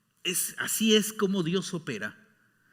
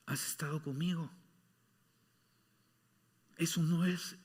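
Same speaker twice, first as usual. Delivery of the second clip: calm the angry son gently; tender father. Acted. Father gently answers older son. (padre tierno, suave y pausado)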